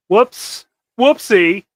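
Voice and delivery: high, loud sing-song oops; playful whoopsie. Acted. Mock oops after trashing pizza.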